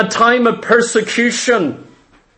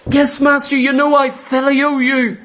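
higher, earnest disciple's reply; Peter answering; 4 semitones higher than usual. Acted. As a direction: answer your master eagerly.

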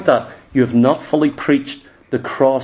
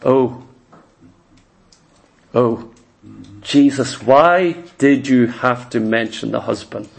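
dismayed woman; 5 semitones lower than usual. Acted. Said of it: "One simple question".

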